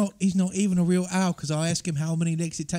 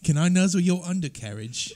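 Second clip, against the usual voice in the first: British serial killer. Pretend. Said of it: "sound like a serial killer from across the pond".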